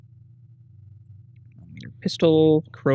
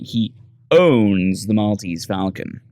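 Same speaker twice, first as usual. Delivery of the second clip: ominous; 2 semitones lower, slower than usual. Acted. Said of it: "why did you say it like that?".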